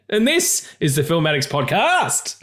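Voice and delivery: slow, booming Super Friends announcer; cartoon announcer. Host opens the show like a cartoon announcer. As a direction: announce it like an old cartoon narrator. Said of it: "I sounded like the guy, the announcer guy".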